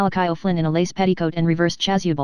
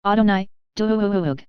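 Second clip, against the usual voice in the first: booming god voice; 2 semitones higher than usual. Acted. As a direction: call down like a god from above. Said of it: "the voice of Adonai calls".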